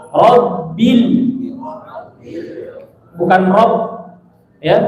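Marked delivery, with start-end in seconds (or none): 0.1-1.0 "robil" with a light, thin i; correct robil. Shown as a demonstration. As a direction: say "robil", not "robel". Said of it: "tapi robil". ("robil" dengan i tipis)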